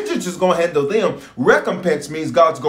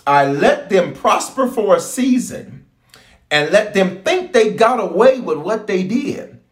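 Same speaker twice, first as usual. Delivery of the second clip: slow, weighty divine warning; voicing God slowly; 3 semitones higher, slower than usual. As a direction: speak as the Lord, drawing it out. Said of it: "He says".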